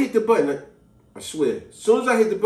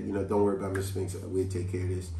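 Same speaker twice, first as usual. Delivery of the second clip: gentlemanly; 10 semitones lower, 6 dB quieter than usual. Retold or imitated.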